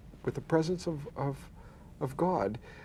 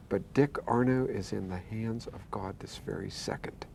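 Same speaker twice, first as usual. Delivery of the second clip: hushed awe; 4 semitones lower, 8 dB quieter than usual. Retold or imitated. Parents hushed, telling church people.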